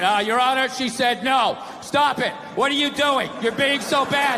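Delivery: dry courtroom reading of the words; bad read. Man reading it aloud to the judge, dry and lifeless. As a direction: read the quote with no life in it. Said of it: "you get a bad read".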